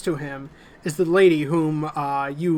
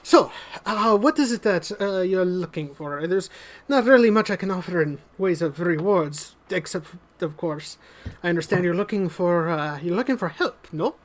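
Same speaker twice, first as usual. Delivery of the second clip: genial lord; 2 semitones higher than usual. Acted. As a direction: offer drinks with lordly charm. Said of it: "And he says".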